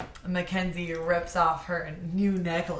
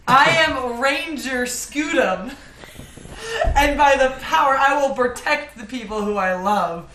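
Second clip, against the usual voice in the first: put-on bright magical girl; 4 semitones higher, 5 dB louder than usual. Magical girl power phrase.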